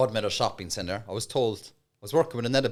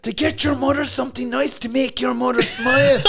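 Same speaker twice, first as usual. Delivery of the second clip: aggressive pitch; 11 semitones higher, 6 dB louder than usual. Acted. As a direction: bellow it while cracking up. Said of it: "aggressive pitch".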